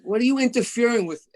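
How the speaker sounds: irritated mock rant; exasperated outburst. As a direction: retell brushing off the caller who interrupts you. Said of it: "And I'm going".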